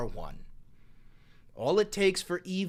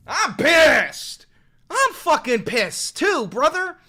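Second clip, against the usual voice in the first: louder, higher, angry declaration; loud angry echo; 7 semitones higher, 7 dB louder, slower than usual. Real, not acted. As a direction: shout your anger along with him. Echoing the voter's anger.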